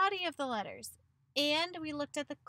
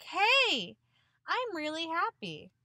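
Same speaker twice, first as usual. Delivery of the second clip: mock happy; 3 semitones higher, 5 dB louder, slower than usual. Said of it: "he didn't sound like he was being like".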